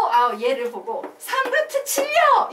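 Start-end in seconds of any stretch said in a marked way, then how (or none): 1.2-2.5 high, drawn-out mock student answer; exaggerated high-pitched wrong answer; mock wrong reading. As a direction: blurt it out high, like a confidently wrong pupil. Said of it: "이렇게 읽으면 된다, 안 된다?".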